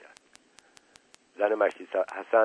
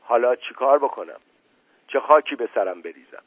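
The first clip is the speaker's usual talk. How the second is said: pleading. Acted. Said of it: "با التماس گفت".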